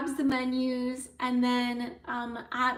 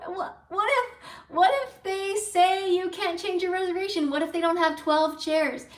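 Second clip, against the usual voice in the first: excited; 5 semitones higher than usual. Retold or imitated. Anxious excited questions.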